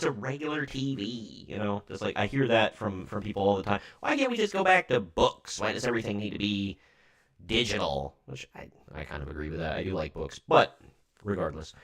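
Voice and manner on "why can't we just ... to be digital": mock old-timer complaint. Voicing people's complaint about technology.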